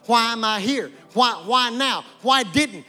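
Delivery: complaining to God. Acted. Preacher voicing complaint to God.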